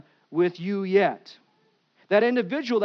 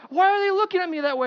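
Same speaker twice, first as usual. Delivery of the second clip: puzzled question; 11 semitones higher, 5 dB louder, faster than usual. Retold or imitated. Man asks Jesus, puzzled.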